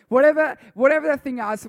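high, loud burst of passion; loud outburst. Real, not acted. Youth pastor preaching at full force, loud. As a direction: shout it out to the room. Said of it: "preacher bursts out".

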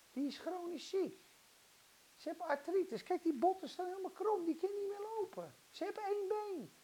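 high, soft worried protest; mock fretting sceptic; whining doubters' objections. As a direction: list the ailments plaintively. Mimics doubters listing ailments.

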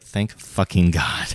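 slow, low relieved thanks; relieved sigh. Retold or imitated. Relieved after clerk's correction.

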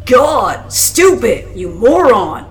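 furious shouted abuse; angry bully. A narrator's reading. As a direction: lash out loudly, full of contempt. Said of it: "Another voice clawed its way".

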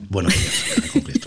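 giggling through the show name; laughing. Real, not acted. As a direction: say it while breaking into laughter. Laughing sign-off.

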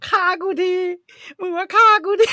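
high, loud anguished yell; host yelling at the Dutch oven, high and loud; desperate shout. Retold or imitated. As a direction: cry out as if begging to be put out of misery. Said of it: "มันพยายามตะโกน".

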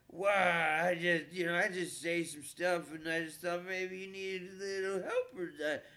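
lightly voiced drunk, stretching the first words; drunk heckler. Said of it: "And that drunk mess".

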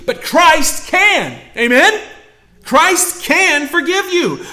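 CAN held high and slow; emphatic declaration. Real, not acted. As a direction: land it with conviction. Preacher's climactic declaration.

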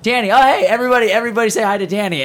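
rally the room like a host; mock crowd hype; excited host call. Retold host calling crowd.

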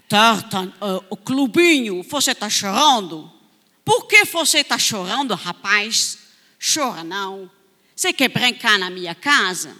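lightly voiced stranger luring a crying child into his house; a hint of a stranger. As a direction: sweet-talk the crying boy inside. Adult stranger lures the boy.

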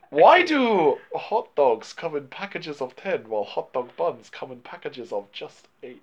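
slow, drawn-out put-on Chinese accent; sage-like mock Chinese accent, slowly; imitating a Chinese accent as a wise master. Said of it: "Why are you doing racist accents?".

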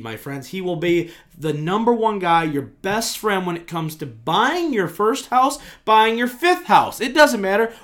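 upbeat sponsor pitch; ad read. Acted. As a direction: sell it like a radio spot. Reads sponsor ad.

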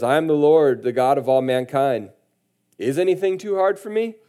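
booming proclamation rising high on the final question; voice of the Lord. Retold or imitated. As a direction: proclaim like God answering his prophet. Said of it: "That's how he said it".

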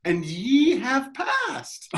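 high, slow solemn pronouncement; hammed-up oracle voice; mock prophet. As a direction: intone it like a mystic. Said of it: "mock oracle".

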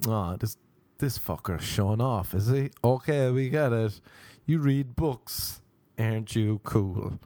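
mild sarcastic sneer at a show-off; mocking onlookers. Onlookers judging someone reading in public, lightly mocking. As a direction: draw out the last jibes with mock admiration. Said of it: "people will look at you being like".

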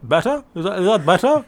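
tongue pressed back, throaty swallowed vowels; swallowed dark vowels. Pretend. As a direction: speak with the tongue pushed down the throat. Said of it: "I press my tongue back sort of down my throat".

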